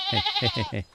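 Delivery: sudden high hey hey; startled call. Real, not acted. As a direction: call out, caught off guard. Calls the sheep back.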